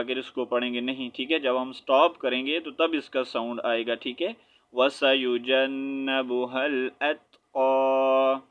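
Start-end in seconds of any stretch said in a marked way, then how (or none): 4.7-8.4 measured Quran recitation. Shown as a demonstration. Teacher recites the full verse.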